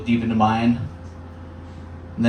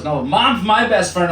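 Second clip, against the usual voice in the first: put-on slow, higher little-girl voice; child's reply; 6 semitones higher than usual. Comedian imitating his daughter's blunt reply.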